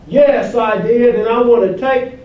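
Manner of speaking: preacher's hammed-up model confession; mock confession. Invented noble reply of Adam, as joke.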